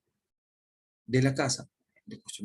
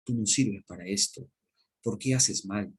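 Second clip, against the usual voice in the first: scolding dad; 2 semitones higher than usual. Retold or imitated. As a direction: play the fed-up father tearing into his child. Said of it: "yo como papá, a mi hijo, le digo".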